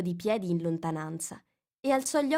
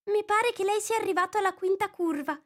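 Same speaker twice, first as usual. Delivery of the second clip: put-on young girl's voice pitched high, eager; a curious girl asking for a story; Alice; 13 semitones higher, 3 dB louder than usual. A narrator's reading. Curious girl reminding the mouse of his promise, lightly voiced.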